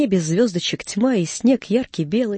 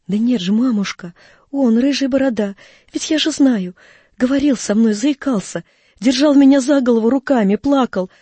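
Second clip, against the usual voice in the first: put-on higher-pitched, eager child insisting; insistent boy; 4 semitones higher, 3 dB louder than usual. Boy convincing his doubting mother, insistently. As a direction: press the point as an excited boy.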